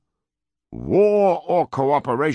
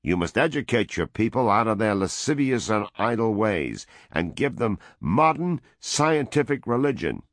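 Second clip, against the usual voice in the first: loud, higher dictatorial demands; raised voice; 6 semitones higher, 3 dB louder than usual. A narrator's reading. American envoy dictating terms to the woman, loud and high. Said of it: "the American raised his voice".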